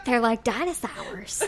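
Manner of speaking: slow, laughing movie-style voice; hammy dinosaur movie voice; Jurassic Park voice. Pretend. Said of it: "Your hillbilly voice is so".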